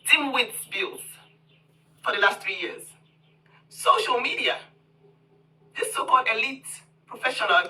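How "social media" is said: whisper. Acted. Punchline answer to her own question.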